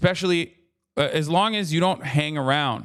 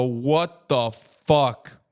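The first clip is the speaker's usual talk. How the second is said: slow, drawn-out shocked what the fuck; a passerby doing a double take in disbelief; stretched-out gasp of disbelief; stunned fan; much slower than usual. Retold or imitated. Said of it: "they see my big ass and go".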